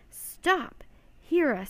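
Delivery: high, loud cry for attention; desperate shout. A narrator's reading. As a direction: shout over a crowd. Child shouting over sailors.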